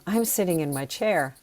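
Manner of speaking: a touch of enthusiasm; enthusiastic. Shown as a demonstration. Teacher sharing the feeling with students, enthusiastic. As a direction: share it keenly with the listener. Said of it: "share with you my enthusiasm".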